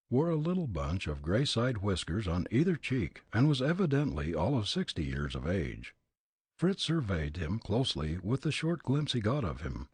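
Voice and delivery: plain reading voice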